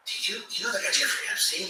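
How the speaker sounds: whispered rich-person gossip; whispered gossip at the ski lodge; hushed gossip. Retold or imitated. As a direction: lean in and whisper the secret. Acted rich guest, hushed.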